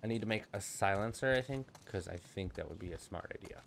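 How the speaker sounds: soft unvoiced whisper to himself. Real, not acted. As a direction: whisper it under your breath. Muttering plan to himself.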